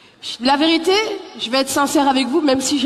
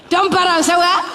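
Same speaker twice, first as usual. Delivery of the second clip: Malian greeting; 4 semitones higher, 3 dB louder than usual. Retold or imitated. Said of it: "Ça donne, euh".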